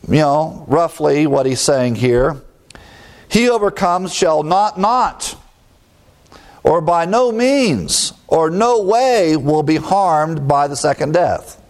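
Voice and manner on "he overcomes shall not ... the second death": higher pitch, stretching "no means" and "no way"; emphatic. Shown as a demonstration. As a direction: lean hard on "not, not" and "no way". Emphatic rendering of the translated verse.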